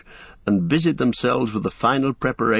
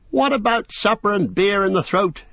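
high, raised call through the door; Merry calling through the bathroom door, raised voice; 11 semitones higher than usual. A narrator's reading. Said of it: "he called".

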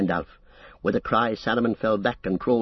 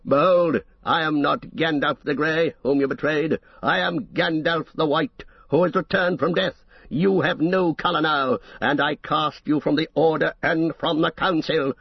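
higher, ringing with authority; powerful and commanding; 4 semitones higher than usual. Acted. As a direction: proclaim it with full power. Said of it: "his voice grew in power and authority".

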